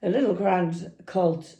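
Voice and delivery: lightly attempted Irish accent. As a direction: imitate an Irish lad, not very well. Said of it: "I can't do an Irish accent, so excuse me".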